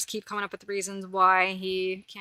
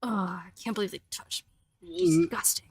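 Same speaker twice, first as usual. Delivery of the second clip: voicing the cat; 3 semitones higher, 3 dB louder than usual. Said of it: "He's vigorously grooming himself".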